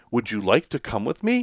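gentle, asking question with a rise; mild courteous request; polite invitation. Retold or imitated. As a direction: offer it kindly, as a real question. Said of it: "it wasn't like".

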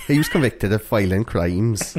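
put-on slow comic accent drifting towards Welsh; mock accent. Podcaster repeating the line after co-host's jibe, mock Welsh-sounding accent. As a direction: say it slowly in a wobbly put-on accent. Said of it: "That sounds a bit Welsh".

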